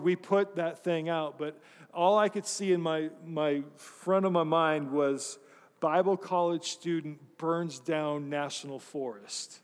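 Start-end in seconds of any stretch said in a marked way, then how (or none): 5.8-9.6 slow, spaced-out headline reading; imagined headline. Retold or imitated. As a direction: announce it like a dreaded headline. Imagines the dreaded newspaper headline.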